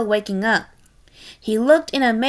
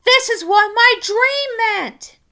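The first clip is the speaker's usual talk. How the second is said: excited realization; 10 semitones higher than usual. Acted.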